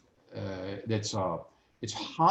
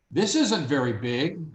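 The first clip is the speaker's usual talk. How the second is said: slightly raised, slow remark; 3 semitones higher, 3 dB louder, slower than usual. Acted. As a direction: say it a little too loudly, drawn out. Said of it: "that you raised your voice".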